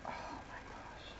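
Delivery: breathless whispered gasp of delight; hushed real awe; awed whisper. Real, not acted. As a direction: whisper it, stunned by how pretty it is. Awed over craft supplies unboxing.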